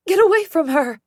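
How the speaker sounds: loud, high protective scream; mother screaming. Acted. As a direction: scream to drive the attacker off your child. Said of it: "as Mom screams".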